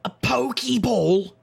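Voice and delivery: slow, high, hushed mocking question; mock whisper. Detective teasing pixie about her ghost ball. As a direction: tease the gadget name.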